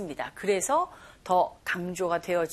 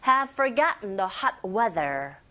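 slow, measured English phrase; slow pronunciation model; slower than usual. Shown as a demonstration. Teacher leads repeat-after-me practice, slowly. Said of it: "따라해보세요".

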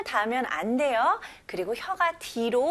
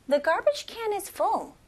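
higher, loud drilled repetition; loud repeat; 7 semitones higher, much slower than usual. Shown as a demonstration. Teacher leading the class to say it loudly together. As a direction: call it out for the class to shout along. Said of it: "큰 목소리로 같이 해볼게요".

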